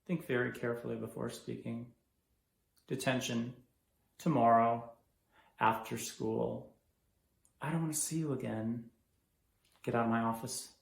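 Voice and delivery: low, soft, controlled sternness; quiet menace. Acted. Principal giving detention and dismissing the student, quietly stern. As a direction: drop to a quiet warning, phrase by phrase.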